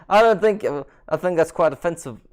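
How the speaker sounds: lightly voiced rock-star accent; a hint of a rock star, mock offended; rock-star impression. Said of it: "'cause I'm a rock star".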